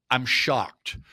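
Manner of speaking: deadpan mock shock; sarcastic. Host mocking news of doubted inflation data, sarcastic. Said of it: "I'm being sarcastic here".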